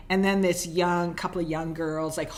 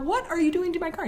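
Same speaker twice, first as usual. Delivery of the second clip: shrill high panic, much higher pitch; freaking out; 11 semitones higher, faster than usual. Retold or imitated. Girls panicking at woman who rammed their car, high and panicked. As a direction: panic over the wrecked car. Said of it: "they are freaking out".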